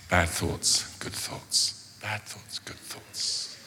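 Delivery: hushed, fading to a breathy whisper; chanting to calm himself down; mock meditation. Pastor mimes his Zen moment in a whisper. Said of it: "I'm having my Zen moment".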